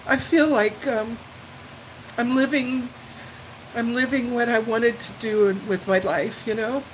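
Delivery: a real weepy catch in the throat; tearful. Real, not acted. Overcome, telling the channel owner about her life, tearful. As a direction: voice thick with real happy tears. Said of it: "Sorry to be so weepy".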